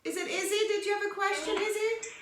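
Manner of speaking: glitchy, breaking-up call audio; choppy video-call sound; glitching audio. Real, not acted. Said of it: "your audio is glitching a lot".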